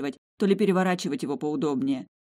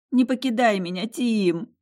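sobbing plea; 5 semitones higher, 5 dB louder than usual. Acted. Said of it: "рыдала я беззвучно".

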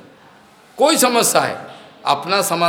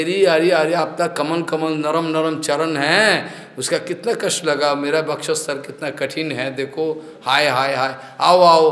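tender concern. Acted. Vishnu consoles Bhrigu after kick.

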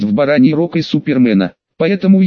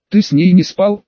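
half question, half statement, pitched higher; questioning yet assertive; 4 semitones higher than usual. A narrator's reading. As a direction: ask it as if already stating it. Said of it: "произнёс с вопросительно-утвердительным тоном Слейд". (вопросительно-утвердительным тоном, повыше)

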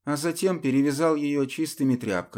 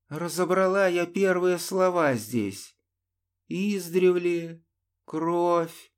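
heated; 7 semitones higher, slower than usual. A narrator's reading. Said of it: "с горячностью произнесла".

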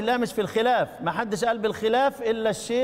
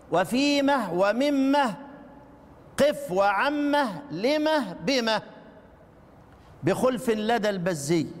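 slow chanted recitation of the verse; slower than usual. Shown as a demonstration. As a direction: recite the poem line slowly. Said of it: "جابها الإمام الشاطبي". (تلاوة بطيئة لبيت الشاطبي)

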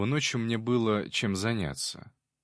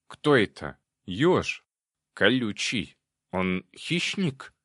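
eager demon; 4 dB louder, slower than usual. A narrator's reading. Eager demon questions the narrator.

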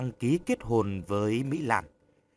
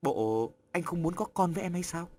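phật ý; 5 semitones higher, 4 dB quieter than usual. A narrator's reading. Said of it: "Mỹ Lan phật ý".

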